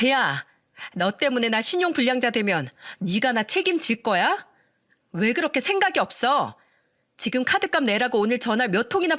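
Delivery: voiced sister-in-law raising her pitch as she rages; shrieking. Sister-in-law screaming at her sister for money, a shrill mock tirade. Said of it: "악을 쓰면서 말하더군요".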